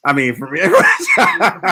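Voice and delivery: laughing through the correction, high and slow. Real, not acted. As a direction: crack up while fixing the word.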